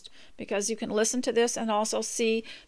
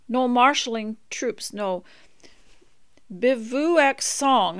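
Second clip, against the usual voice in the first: measured, swelling poetic reading, louder on the big lines; poem recitation; 4 dB louder than usual. Acted. Reading an old poem to her listeners, in a solemn recital.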